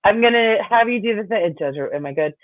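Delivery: unsure witness. Retold or imitated. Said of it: "she was clearly looking at the judge, like".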